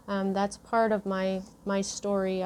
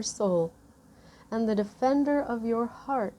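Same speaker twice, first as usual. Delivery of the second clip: moved oracle card reading. Real, not acted. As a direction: read the message gently, holding back tears. Reads the card's message.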